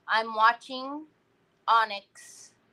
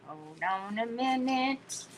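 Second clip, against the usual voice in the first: 1 slow hold on; 6 dB quieter than usual. Shown as a demonstration. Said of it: "I don't like cutting words off".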